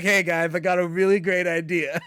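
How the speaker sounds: mock Russian accent, loud; hammed-up Russian accent. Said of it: "Russian accent was good".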